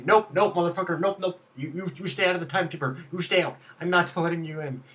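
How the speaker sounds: loud put-on accent, refusing firmly; Popo accent. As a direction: bar the way in a mock Popo accent, breaking into a laugh. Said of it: "I gave Popo that accent".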